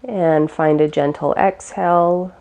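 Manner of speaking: calm, unhurried meditation guide; guided meditation. Real, not acted. Teacher guiding listeners through gentle breaths, calm guided meditation. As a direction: ease them gently through each breath, with long pauses.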